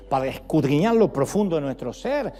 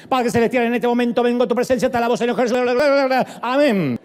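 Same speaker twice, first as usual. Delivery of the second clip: rushed mock prayer; 3 semitones higher, 6 dB louder than usual. Mocking a hurried monologue prayer.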